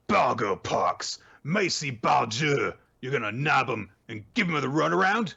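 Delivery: high, smug put-on villain voice; mock douchey Bruno. Retelling the show, Bruno's reply voiced smug and high. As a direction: play him smug and sneering. Bruno Bagknife quote retold.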